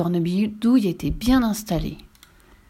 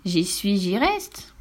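mocking witch; 4 semitones higher than usual. Witch mocks the boy.

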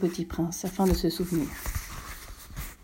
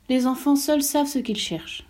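little prince voice; 5 semitones higher than usual. Acted. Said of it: "fit le petit prince".

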